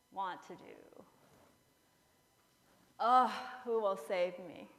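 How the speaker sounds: Paul pleading in anguish. Acted. Paul confessing his struggle, in an anguished plea. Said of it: "the Apostle Paul said".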